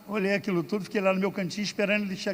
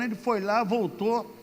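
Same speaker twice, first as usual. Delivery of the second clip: ordinary delivery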